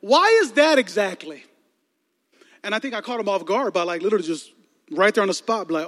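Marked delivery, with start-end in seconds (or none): 0.0-1.5 slow, pointed question; pointed challenge. Retold or imitated. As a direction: press him on it slowly. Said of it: "I'm like".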